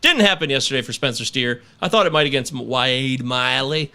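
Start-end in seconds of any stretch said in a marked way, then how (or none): 2.7-3.9 slow, drawn-out name with an odd twang; slipped into a mock Australian lilt; accidental Australian twang. Real, not acted. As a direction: stretch the name out like an Aussie. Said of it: "I don't know why I said like that".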